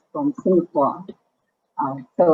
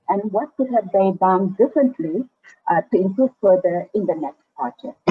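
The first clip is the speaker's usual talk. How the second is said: muffled. Real, not acted. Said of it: "it's a bit muffled".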